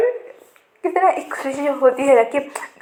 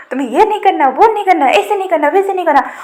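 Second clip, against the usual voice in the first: higher, louder, listing each complaint with a falling snap; mock nagging scold; 5 semitones higher, 3 dB louder, faster than usual. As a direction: nag him like a fed-up mother, line by line. Lanja scolds Wing like child. (ऊँची, तेज़ आवाज़ में चिढ़ाते हुए डाँटना)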